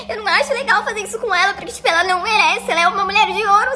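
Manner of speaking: fast, weepy, laughing sob; mock crying. Narrator mimicking the guy crying about his girlfriend. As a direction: imitate his blubbering excuse. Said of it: "com voz de choro".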